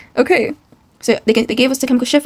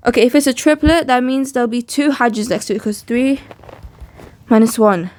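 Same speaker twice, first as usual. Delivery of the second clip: breathless after rushing back; out of breath. Real, not acted. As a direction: talk while catching your breath. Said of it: "I'm catching my breath".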